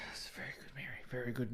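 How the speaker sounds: whispered, hushed praise; teacher whispering. Retold or imitated. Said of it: "And she goes".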